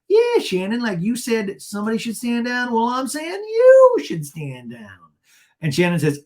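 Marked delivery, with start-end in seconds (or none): 0.1-5.0 high, insistent mock argument; hammed-up, stretching the final words; Gina. Gina throwing Shannon's words back at her, mock indignant. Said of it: "And she's like".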